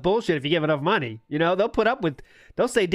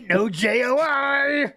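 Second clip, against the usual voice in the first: slow spelled out; 6 semitones higher, much slower than usual. Retold or imitated. Repeating the refusal slowly.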